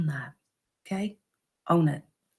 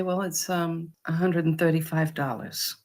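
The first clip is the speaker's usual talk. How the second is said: calm price; 2 semitones lower, 6 dB quieter than usual. Shown as a demonstration. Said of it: "and you say".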